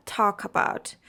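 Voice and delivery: "talk about" joined as "taw-kabout"; linked sounds. Shown as a demonstration. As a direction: slide the k of "talk" onto "about". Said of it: "work on your linking sounds".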